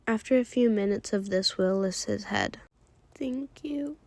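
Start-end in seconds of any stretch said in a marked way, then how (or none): 3.1-4.0 unvoiced, soft whispered thanks. Will thanks him after crying.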